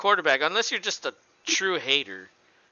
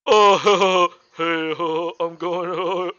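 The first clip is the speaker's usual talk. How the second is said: imitating a Southern country-boy accent, loose and folksy; a light country-boy impression with a laugh; country boy drawl; 2 semitones higher, 6 dB louder, much slower than usual. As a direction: mimic a good-old-boy Texas announcer. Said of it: "he sounds like a country boy".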